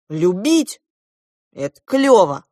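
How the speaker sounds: loud, emphatic enthusiasm; ardent. A narrator's reading. Klop defending love to the goose, ardent. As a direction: declare it with passion. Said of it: "пылко возразил Клоп".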